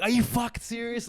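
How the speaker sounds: mock incredulous outburst; retold angry challenge. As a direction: replay confronting the other driver. Confronting the other driver angrily.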